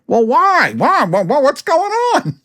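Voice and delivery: high, stammering imitation of a startled friend; mock surprised whine. The caller mimicking the startled guy, high flustered whine. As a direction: ape his flustered "why, why".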